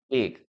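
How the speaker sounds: "big" ending in a voiced G; careful teacher's "big" with hard G; correct pronunciation. Shown as a demonstration. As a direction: sound the final G of "big". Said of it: "La letra G".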